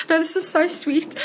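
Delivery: gushing. Retold or imitated. Author insisting to the child how sweet it is, high and gushing.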